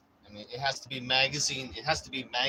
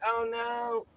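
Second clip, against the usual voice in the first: mock panic; 12 semitones higher than usual. Dialing during a break-in, high hammed-up panic. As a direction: squeal out each number in hammed-up terror. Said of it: "You're like".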